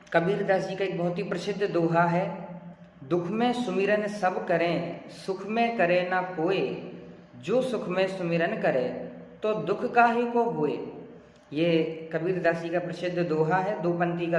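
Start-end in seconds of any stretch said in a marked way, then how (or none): 3.0-10.8 spoken verse recitation. Shown as a demonstration. Teacher reading Kabir's couplet to learners, spoken recitation. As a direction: read the couplet without singing. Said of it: "मैंने इसको भी सिर्फ पढ़ा है".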